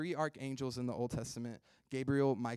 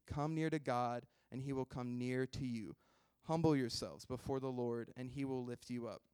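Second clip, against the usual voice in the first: scripture reading. Acted. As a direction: read the verses with weight. Reads James four aloud.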